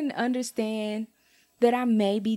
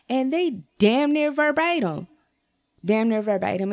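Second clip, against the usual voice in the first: louder, higher indignant outburst; 3 semitones higher, 4 dB louder than usual. Real, not acted. Vlogger telling viewers the form was copied, indignant outburst. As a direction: hit it like you caught her red-handed.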